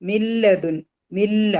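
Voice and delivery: മില്ല with the n turned straight into a doubled l; merging without ghunnah. Shown as a demonstration. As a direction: lean on the ll of മില്ല, no nasal hum. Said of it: "ബിലാ ഉന്ന".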